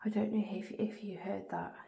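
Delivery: hushed whisper in the dark. Real, not acted. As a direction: breathe the words without voice.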